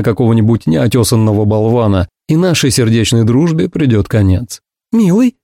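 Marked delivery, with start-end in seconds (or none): 4.9-5.4 high appealing call. A narrator's reading. Ursula calling to her silent friend, high. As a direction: call down the line, much higher. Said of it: "воззвала Урсула".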